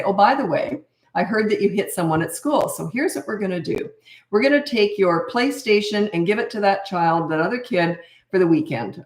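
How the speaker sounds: matter-of-fact parental tone, no anger; calm discipline. Shown as a demonstration. Parent telling a child the consequence of hitting, calm and even. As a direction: lay down the consequence calmly and confidently. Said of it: "See that tone?".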